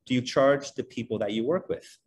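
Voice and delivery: imitating mom's thick Hebrew accent; lightly voiced Israeli mom with a Hebrew accent. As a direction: put on a Hebrew accent for a questioning mother. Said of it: "in this really thick Hebrew accent".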